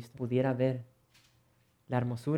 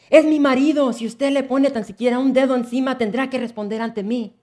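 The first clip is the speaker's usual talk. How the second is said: high, loud protective shouting; furious shout; 10 semitones higher, 9 dB louder than usual. Acted. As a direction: fiercely defend your husband. Wife defends husband shouting.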